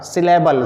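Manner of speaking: सिलेबल set carefully apart from a similar word; clearly pronounced सिलेबल. Shown as a demonstration. Teacher correcting a likely mix-up with syllabus, clearly pronounced. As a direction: say सिलेबल distinctly, ending in -बल. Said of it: "सिलेबस नहीं".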